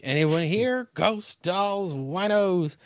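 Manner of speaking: put-on slurred drunk voice. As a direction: read it like she's tipsy. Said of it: "just a drunk voice".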